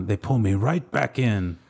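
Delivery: slow, lightly voiced Pacino line; Pacino impression. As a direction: drag the line out like a weary mobster. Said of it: "Wasn't that Pacino".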